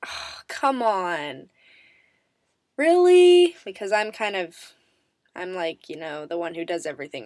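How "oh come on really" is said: hushed sigh building to a high loud really; mock parental disbelief; disappointed parents. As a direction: play the let-down parent. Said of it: "They'd be like".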